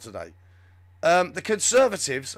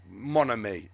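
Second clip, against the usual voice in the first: badly faked French accent, lower; mock French, pitched down; 5 semitones lower, slower than usual. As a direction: have a half-hearted go at French. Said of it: "I can't do the French accent either".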